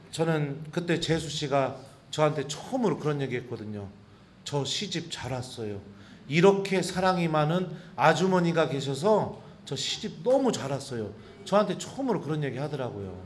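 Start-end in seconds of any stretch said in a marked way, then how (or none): 4.4-11.1 softer, lower grateful words; tender thanks. Retold or imitated. Sister-in-law quietly thanking the priest. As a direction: says it gently.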